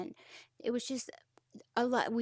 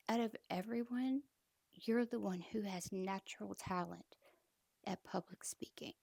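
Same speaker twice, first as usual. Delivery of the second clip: soft praise; 6 dB quieter than usual. Retold or imitated. Captain praising her softly.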